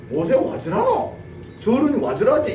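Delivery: slow, baffled dialect mutter; Aaron and Hur staring at Moses, baffled; puzzled onlookers. Retold or imitated. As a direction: wonder what on earth he is doing.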